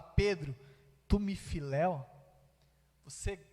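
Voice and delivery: low-pitched, halting, softening question. Acted. Jesus coming down to Peter's level to ask, gentle low question. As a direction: come down to their level, low and unhurried with pauses. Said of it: "se rebaixa ao nível de Pedro".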